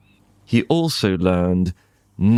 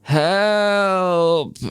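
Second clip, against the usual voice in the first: high, desperate call for help; a storyteller's high cry of help; 8 semitones higher than usual. Acted. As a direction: call out trapped and scared. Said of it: "Anansi cried out".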